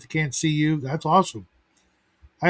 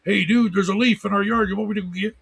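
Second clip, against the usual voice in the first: higher, eager dog voice; voicing the dog; 6 semitones higher, faster than usual. Speaker voices his dog reporting a leaf, eager higher voice. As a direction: play the dog as an excited buddy. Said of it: "my dog will bark ... to let me know".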